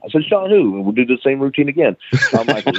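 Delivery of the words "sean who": higher, disbelieving question; mock exasperated, pitched up; retold baffled query; incredulous. Repeating routine on the phone.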